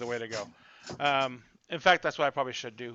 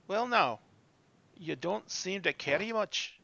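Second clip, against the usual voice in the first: lightly voiced dwarf, pitched higher; a hint of a dwarf sizing someone up; dwarf woman; 5 semitones higher, 3 dB quieter, slower than usual. Dwarf looks a traveller up and down, lightly voiced. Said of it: "the dwarf comes walking up to you".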